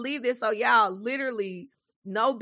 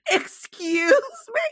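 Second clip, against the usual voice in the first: indignant; 8 semitones higher, much slower than usual. Retold or imitated. Retold indignation.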